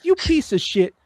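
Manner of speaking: high mock cursing at the other driver; retold road-rage yell. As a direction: yell it up high like you're leaning on the horn. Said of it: "I'm like".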